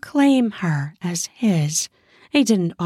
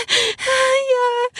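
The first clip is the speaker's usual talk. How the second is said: eager yeahs. Acted. Woman urging her lover on, high and eager. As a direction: urge him on, high and eager.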